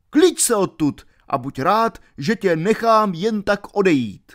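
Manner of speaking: stout friar dressing him down; scolding friar. Acted. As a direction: friar warning the villain to leave.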